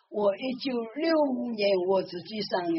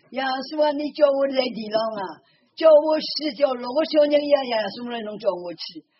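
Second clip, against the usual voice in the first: raised, pleading cry to Jesus; pleading prayer; 3 semitones higher, 6 dB louder than usual. Retold or imitated. (大声哀求的祷告)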